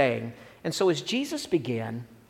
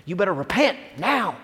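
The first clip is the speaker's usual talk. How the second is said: mock Southern preacher, Southern accent. Shown as a demonstration. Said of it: "I gotta say that with a Southern accent".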